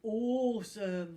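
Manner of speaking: slow, loud, awed; reverent. Acted. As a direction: breathe it out in awe. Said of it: "said Barry reverently".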